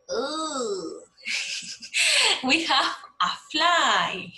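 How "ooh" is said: playful ooh and giggle. Acted. Teacher showing pupils a fly, playful ooh and giggle. Shows a fly, reacts with noises.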